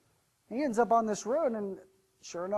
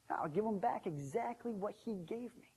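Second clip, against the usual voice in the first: softer, contained resentment; resolving to himself; 6 dB quieter than usual. Acted. Servant privately decides to return the gold, quietly resentful. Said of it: "thought to himself".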